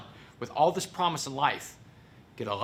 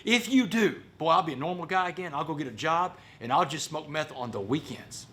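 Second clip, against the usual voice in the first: raised, eager bargaining, acted out; bargaining with God; 4 semitones higher than usual. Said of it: "bargain with God".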